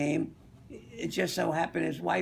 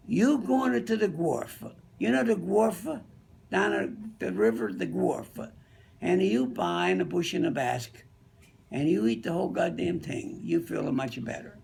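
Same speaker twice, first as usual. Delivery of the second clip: put-on Italian accent; 2 semitones higher than usual. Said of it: "Tony was a little Italian guy".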